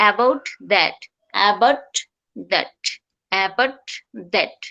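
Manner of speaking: about that with the T of about held. Shown as a demonstration. Teacher showing tongue stays up, held T. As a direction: keep tongue up on about, no release before that. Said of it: "আমার জিহ্বাটা নিচে নামবে না".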